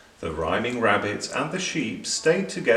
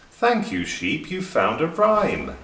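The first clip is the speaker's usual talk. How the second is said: high, louder delight; delighted thanks; 7 semitones higher, 3 dB louder than usual. A narrator's reading. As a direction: thank her with glee. Rabbit delighted by rhyme.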